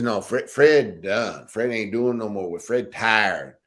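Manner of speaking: slow, lightly voiced Fred calling it quits; a touch of Fred's funny talk, dragged out slowly. Fred telling Bunzy he's done lifting, slow and mildly mimicked. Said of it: "then you get Fred talk funny".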